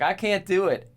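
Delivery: high, mock-pleading movie quote; acted protest. Retelling movie scene to co-host, mock protest. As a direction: play the character's refusal up high.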